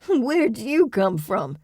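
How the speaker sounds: frightened loud cry; cried out. A narrator's reading. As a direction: cry it out in panic. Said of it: "Clem cried".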